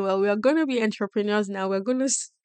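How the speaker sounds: mock eager announcement. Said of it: "when you tell your brain".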